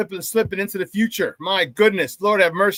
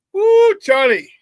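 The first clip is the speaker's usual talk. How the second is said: high whooping shout-out; hyped greeting to a viewer; excited whoop; 10 semitones higher, 5 dB louder, slower than usual. Real, not acted.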